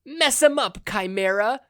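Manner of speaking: high, loud cheering; shrill excited cheer. A narrator's reading. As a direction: cheer him on from the sidelines. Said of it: "Slice cheered".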